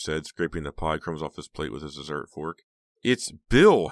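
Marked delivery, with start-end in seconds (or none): 3.0-3.9 high, loud correction; sharp interruption. A narrator's reading. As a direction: cut in sharply. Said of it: "Heather interrupted".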